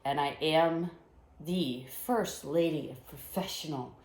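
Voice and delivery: announcing yourself like a wrestler; big ring-announcer intro; wrestling promo. Acted. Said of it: "Cutting a promo?".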